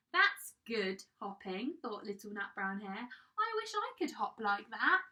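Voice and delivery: animated picture-book narration; children's story reading. A narrator's reading. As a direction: read it to small children, lifting the dialogue. Reads a picture book aloud.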